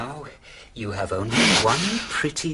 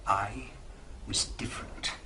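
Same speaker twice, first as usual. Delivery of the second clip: breathy hushed whisper, voice dropping away; a sly, confiding whisper to Molly; 4 semitones lower, 7 dB quieter than usual. Acted. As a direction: let him lean in and whisper the secret. Peter drops to a confiding hush.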